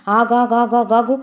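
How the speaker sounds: wife stopping her husband at the door; stretched call. Acted. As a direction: call him back as he leaves. Wife stops husband leaving.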